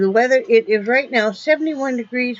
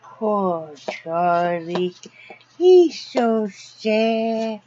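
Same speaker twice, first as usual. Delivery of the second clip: mock pity; much slower than usual. Pitying the dog on camera.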